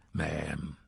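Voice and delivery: hushed, barely voiced "Ma'am"; quiet whisper. Mar hushes Lenora so the dog stays calm, whispering. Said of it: "keeping his voice quiet to keep the dog calmed down".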